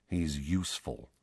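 low, soft mutter. A narrator's reading. Godfather discreetly explaining to his godson, muttered. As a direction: mutter it under your breath. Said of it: "Sirius muttered".

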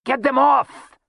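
high-pitched bellow of alarm. A narrator's reading. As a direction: bellow it high, as if under attack. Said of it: "he bellowed".

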